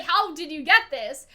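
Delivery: slow, even question, no surprise; calm measured question. Retold or imitated. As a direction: ask it slowly and coolly. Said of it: "He's like".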